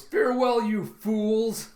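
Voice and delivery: high, loud hammed-up taunt; villain's farewell. Villain flying off with captive, loud mocking farewell. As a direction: crow it theatrically as you escape.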